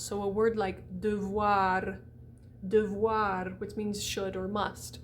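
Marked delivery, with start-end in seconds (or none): 1.0-3.5 "devoir" with first syllable a neutral "duh"; schwa. Shown as a demonstration. Teacher gives example word, "devoir" with schwa. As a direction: relax the E of "devoir". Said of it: "schwa at the end of syllables".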